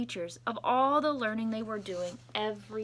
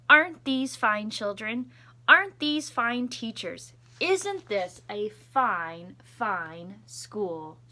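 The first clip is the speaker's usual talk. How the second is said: proud principal; 5 dB louder, slower than usual. Acted. Principal voiced in read story.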